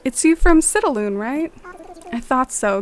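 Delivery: a hint of a British accent, lifted in pitch; mock British accent to impress a shopkeeper. Player greeting Kix in a playful British accent. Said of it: "trying out my accent to impress Kix".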